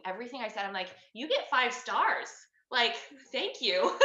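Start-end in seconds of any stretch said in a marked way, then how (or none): 1.1-4.0 playful mock rating. Mock rating the echoing doctor.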